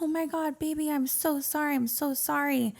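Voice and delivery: imitating panicked boyfriend. Boyfriend apologizing after breaking her nose, high frantic mock plea. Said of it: "He was like".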